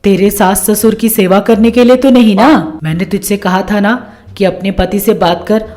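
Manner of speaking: lightly voiced nagging mother; a hint of motherly scolding; scheming mother, reproachful. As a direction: press the daughter with pointed questions. Voices the mother prodding daughter.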